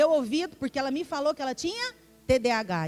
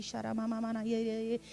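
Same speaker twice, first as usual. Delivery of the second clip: falar em línguas; 2 semitones lower, 5 dB quieter than usual. Retold or imitated. Imita a oração em línguas.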